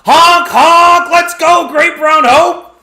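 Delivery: high, loud, drawn-out clown cheer; silly clown. Acted. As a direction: honk it out like a goofy clown.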